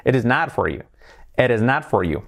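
"It is not for you" linked, T of "not" very light; smooth linked phrase with soft "not". Shown as a demonstration. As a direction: join the words, barely touch the T in "not". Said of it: "pero muy suavecita".

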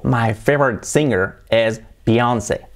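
slow English, the singer's name as bi-ON-sey; careful English bi-ON-say for the name; English pronunciation. Shown as a demonstration. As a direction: model the sentence slowly in English. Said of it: "Así se pronuncia".

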